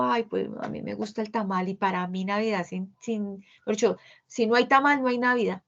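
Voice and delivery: a lightly voiced, stubborn holiday insister; stubborn tamal lover. Teacher mimicking a coworker who insists on tamal. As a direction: play someone who won't give up the tamal. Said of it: "suelto la resistencia y digo".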